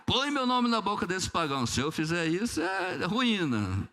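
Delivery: mais agudo, com riso na voz; Deus rindo. Acted. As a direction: responda rindo da oração. (Deus rindo do pedido do menino, divertido)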